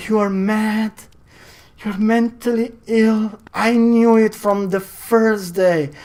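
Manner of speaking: crying wife. Acted. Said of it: "And she was crying so hard".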